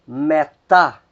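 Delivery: "metá" stressed on "tá"; Greek stress demo. Shown as a demonstration. Teacher modelling Greek accent placement, stressing "tá". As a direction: land firmly on "tá" in "metá". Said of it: "a sílaba que soa mais forte é a última".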